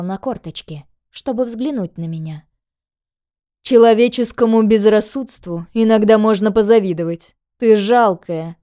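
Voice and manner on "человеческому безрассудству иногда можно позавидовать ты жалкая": contemptuous villainess. Acted. Villainess taunts the captive.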